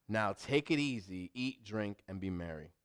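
low, soft, settling back; contented self-talk. Acted. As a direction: let it sink softly and low, at ease. Rich man contentedly talks to himself.

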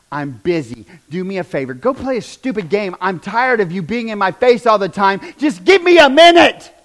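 impatient parent, building to a loud snap at the end; annoyed parent. Retold or imitated. Parent brushing off child.

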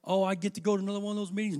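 "Oh, I get to go" rattled off fast with a sarcastic sigh; mock the reluctant complainer, fast and sour; sarcastic grumble. Mocking a reluctant team member's grumble. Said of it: "we learned in team leadership".

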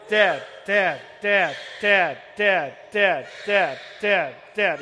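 put-on loud, nagging child calling Dad; whiny kid. Pastor imitates his kids nagging at his leg, loud whiny calling. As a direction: keep tugging and calling dad. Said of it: "someone pulling on your leg saying".

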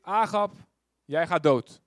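loud, blunt pronouncement; stern verdict. Retold or imitated. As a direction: hand him the verdict flatly. Prophet announces king's death. (luide, harde uitspraak)

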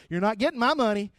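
defiant. Retold or imitated. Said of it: "This is me driving off".

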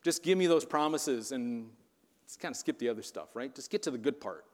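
a hint of a lazy churchgoer; mock consumer. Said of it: "I feel like we're consumers".

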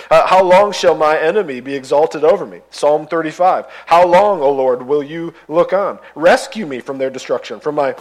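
impassioned scripture reading. Acted. Pastor reading the psalms' complaints to congregation, impassioned and loud. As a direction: read these cries to God with mounting force. Reads lament psalms aloud.

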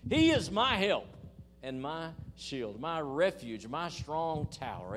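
preacher's loud rising declaration; preaching peak. Acted. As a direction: burst out loud, then slow and weighty.

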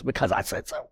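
low-key, softened parental comeback; understated echo. Retold or imitated. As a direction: toss it off quietly, as a gentle aside. Same answer, now from God.

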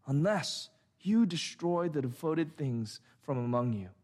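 measured, solemn reading of God's words; solemn scripture voice. Acted. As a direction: read it like a pronouncement from the pulpit.

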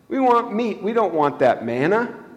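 mock complaining Israelites; whining crowd.

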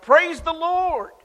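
long, high, loud drawn-out shout of praise; old lady shouting praise to the neighborhood; joyful shout. Acted. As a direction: call it out from the porch, slow and full. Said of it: "stand on her front porch and shout".

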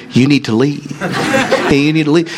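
gently voiced imitation of a mild minister; a hint of kindly children's-host politeness; Mister Rogers. Preacher mimics minister telling witch doctor to leave, mild and polite. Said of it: "in Mister Rogers' best voice".

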